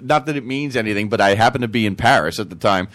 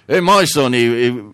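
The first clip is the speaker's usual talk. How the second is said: put-on English accent; 3 dB louder than usual. Englishman starting his brag, wobbly English accent. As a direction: attempt a joke Englishman. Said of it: "The Englishman says".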